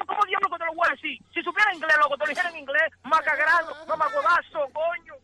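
suelta insultos más fuerte; insultos furiosos. Real, not acted. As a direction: descarga la rabia a gritos. Víctima de broma, insulta enfadado. (la víctima de la broma estalla en insultos)

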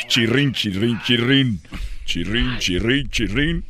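rhythmic squeak of bedsprings, in threes; creaking bed imitation. Comic telling of overheard creaking bed, squeaky imitation. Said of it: "una cama que rechinaba".

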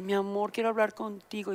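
put-on mild tender plea to boyfriend; soft sweet call. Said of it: "le hablé". (tono dulce y suave, suplicando un poco)

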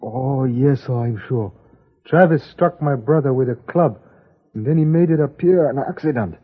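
put-on Chinese accent. Chinese character, stereotyped accent.

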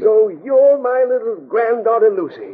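put-on an old man's warm, slightly slowed exclamation of joy; delighted exclamation. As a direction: greet her at arm's length, delighted. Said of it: "as he exclaimed".

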